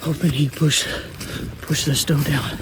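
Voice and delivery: out of breath from running uphill; panting between words, winded; heavy breathing. Real, not acted. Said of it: "Sorry, I'm breathing hard".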